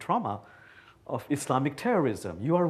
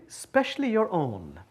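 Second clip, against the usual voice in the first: with a wink; 4 semitones higher than usual. Retold or imitated. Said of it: "he would add with a wink".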